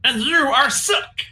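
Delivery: high, slow pleading kobold; whiny kobold begging the king; squeaky kobold voice. Acted. Sir Dim retorts.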